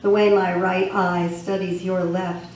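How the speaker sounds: emphatic poem recital, firmly projected; poetry reading. Acted. Poet reading the Original Human poem aloud, emphatic recital. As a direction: deliver it as verse, phrase by phrase.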